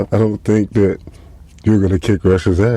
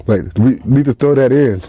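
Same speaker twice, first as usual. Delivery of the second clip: usual speaking voice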